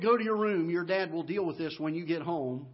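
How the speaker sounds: loud stern order from mom; mom scolding. Retold or imitated. Mom orders son to his room, loud and stern. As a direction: send the boy to his room, firm and loud.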